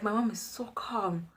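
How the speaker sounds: hushed whisper of disbelief; whispered aside. Real, not acted. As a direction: whisper it like a secret to the audience. Awed aside about mom.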